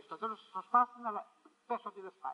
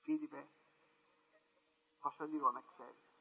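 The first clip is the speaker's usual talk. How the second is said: the Lord speaking gently; 7 semitones lower, 8 dB quieter than usual. Acted. Voicing the Lord's words.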